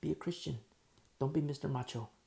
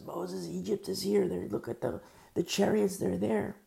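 raised voice warning of the chariots, half shouted; mock alarmed shout; 5 semitones higher than usual. Israelite calls out to Moses that Egypt is here, mock alarmed shout. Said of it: "somebody shouts out at Moses".

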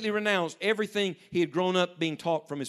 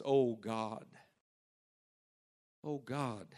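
dying man's cry; 6 semitones lower, 8 dB quieter, much slower than usual. Retold or imitated. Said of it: "crying out in the middle of the night".

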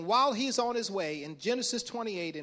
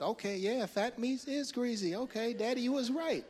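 put-on chastened child; 5 semitones higher than usual. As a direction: concede to Daddy in a high kid's voice. Whooped child concedes to Daddy.

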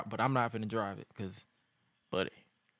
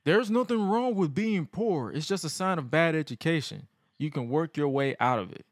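JBL impression; 3 semitones higher than usual. Podcaster quoting JBL's promo, mild smug impression. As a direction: sneer down at the poor like JBL.

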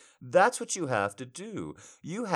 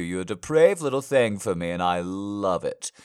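insistent repeat; 6 dB louder than usual. Acted. Partner repeating the question, louder and insistent. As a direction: repeat it louder, pressing hard. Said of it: "I said".

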